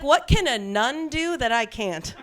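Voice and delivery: mock-defensive, drawn-out challenge. Daughter answering mom about being a nun, mock defensive. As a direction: retort slowly, as if mildly affronted. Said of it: "And I got defensive".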